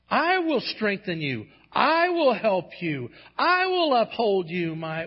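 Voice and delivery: God's promise, high, loud and slow; rising preached promise, each line hammered; full-force proclamation. Acted. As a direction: declare it like thunder from the pulpit.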